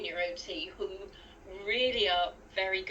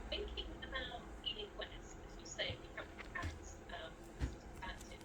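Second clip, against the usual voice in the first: muffled, distant bad connection; underwater; 3 semitones higher, 13 dB quieter, faster than usual. Real, not acted. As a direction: voice garbled as if underwater. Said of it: "Sound like you're underwater".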